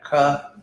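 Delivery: "ka" made at the back of the mouth; back-of-mouth consonant. Shown as a demonstration. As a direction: close the back of the mouth, then release "ka". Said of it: "back in the back".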